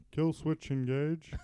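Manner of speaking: slow, drawn-out Transylvanian vampire accent. Shown as a demonstration. Naming a favorite band on request, Transylvanian accent. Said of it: "why don't you do your accent now".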